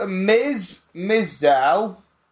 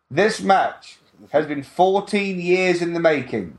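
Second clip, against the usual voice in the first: mock hype promo line. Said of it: "promo hype line".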